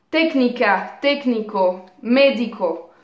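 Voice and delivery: "técnica, técnico, médico", each stressed on the first syllable; antepenultimate stress. Shown as a demonstration. Teacher gives students esdrújulas, first syllable stressed in "técnica", "técnico", "médico". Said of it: "accentués sur la troisième syllabe en partant".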